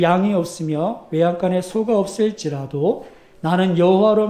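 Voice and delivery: slow, measured scripture reading; solemn Bible reading. Acted. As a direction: read the verse to the congregation with weight.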